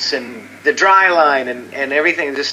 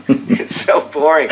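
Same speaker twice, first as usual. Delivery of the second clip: laughing repeat; 2 semitones higher than usual. Real, not acted.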